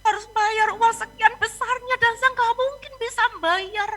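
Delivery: pleading apology, mildly agitated; retold panic. Pastor begging God to forgive a slip, mildly panicked. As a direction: act out begging to be let off. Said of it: "cuman perasaan panik, takut".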